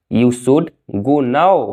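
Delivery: slow, careful model sentence; slow and clear. Shown as a demonstration. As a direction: spell it out slowly for learners. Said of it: "अब तुम्हें जाना चाहिए।". (धीरे और साफ़)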